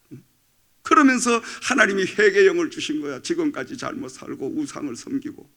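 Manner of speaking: usual speaking voice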